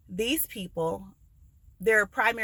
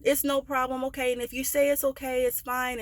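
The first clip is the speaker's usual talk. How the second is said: higher-pitched, mildly choked-up retelling; tearful acceptance; 5 semitones higher than usual. Retold or imitated. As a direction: imitate a father trying to stay okay. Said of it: "tearing up a little bit".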